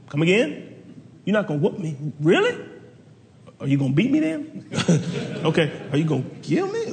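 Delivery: incredulous, half laughing; mock disbelief, voice jumping up on Really; disbelieving kid. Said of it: "I'm like".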